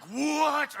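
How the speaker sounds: high, loud indignant what; outraged disbelief; shocked what. Acted. Rulers caught out by the blind man, loud shocked outrage.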